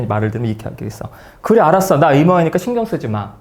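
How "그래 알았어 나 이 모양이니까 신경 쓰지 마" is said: acted-out huffy retort; mock angry. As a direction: tell mom off in mild anger. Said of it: "하면서 이제 화를 내겠죠".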